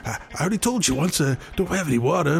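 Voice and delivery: annoyed bartender. Acted. Bartender repeats refusal, annoyed.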